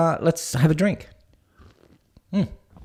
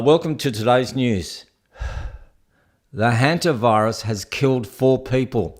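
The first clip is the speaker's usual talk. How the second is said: lightly imitated weary newsreader, with a long pause; tired newsreader; 3 semitones lower than usual. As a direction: read the news as if worn out. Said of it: "newsreaders are even tired".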